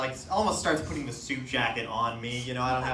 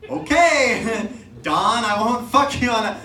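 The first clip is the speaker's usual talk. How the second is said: nervous laughing promise; 7 semitones higher, 9 dB louder, slower than usual. Retold or imitated. Nervous reply to mafia threat.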